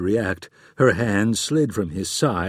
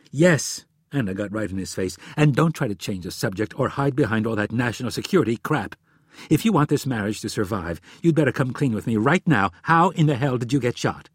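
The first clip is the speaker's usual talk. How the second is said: angry. Acted. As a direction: force him to come clean. Wife confronts husband.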